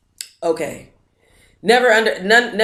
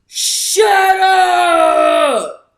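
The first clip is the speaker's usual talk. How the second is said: high, stunned exclamation; disbelieving shut up; 10 semitones higher, 3 dB louder than usual. Real, not acted. Vlogger learning of a new book, stunned high exclamation. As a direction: blurt it out in happy disbelief.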